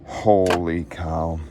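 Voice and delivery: awed. Real, not acted. Admiring the fish.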